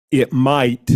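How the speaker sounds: might leaned on, then a pause; stress on might. Real, not acted. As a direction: hang a slight weight on might. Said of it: "and I emphasize the word might".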